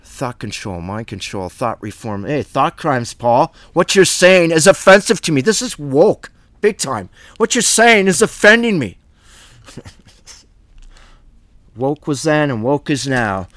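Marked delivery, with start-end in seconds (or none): 3.7-7.1 indignant mock complaint, a bit higher and louder; mock offended. Preacher mocking listeners offended by Paul, indignant. 7.4-9.0 hammed-up outrage, pitched much higher; mock offended whine. Preacher mocking Paul's easily offended listeners, high whine.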